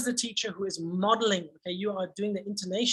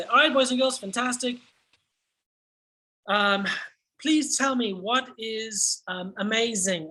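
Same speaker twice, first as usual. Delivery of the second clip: teacher voice. Shown as a demonstration. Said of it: "you will then say".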